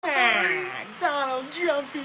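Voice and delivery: slow, high, crying words; celebrity crying in a video; tearful crying. Retold or imitated. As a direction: choke out the words through tears. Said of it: "Just look at this".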